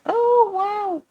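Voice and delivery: high, drawn-out awe; retold wow, pitched right up; impressed amazement. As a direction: react as if wowed by a great impression. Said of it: "So I was like".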